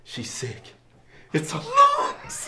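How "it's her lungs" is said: slow, high, squeezed out through laughter; laughing through line. Real, not acted. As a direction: try to say it but giggle breaks through.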